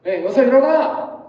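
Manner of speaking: lightly acted, drawn-out wake-up call; a mother's slow wake-up call, mildly acted; mom waking child. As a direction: call out slowly to rouse a sleeper. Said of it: "엄마가 와서 이제 뭐라 그러죠".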